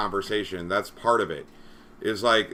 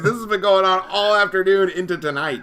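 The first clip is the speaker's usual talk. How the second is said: higher, louder, fed-up venting; exasperated rant; 6 semitones higher, 4 dB louder than usual. Real, not acted. Moderator ranting to cohost about all-afternoon fight, exasperated. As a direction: let the frustration spill over.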